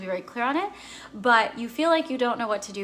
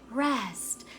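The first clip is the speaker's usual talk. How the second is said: gentle intuition; 3 semitones higher, 3 dB quieter, much slower than usual. Acted. Intuition voiced as soft advice.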